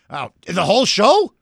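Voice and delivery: surprised question, rising at the end. Real, not acted. Radio host learns from producer how much time is left, surprised. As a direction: check it in real surprise.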